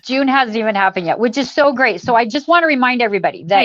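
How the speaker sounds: muffled, hollow audio; like talking inside a fishbowl. Real, not acted. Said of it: "It's sounding like you're in a fishbowl".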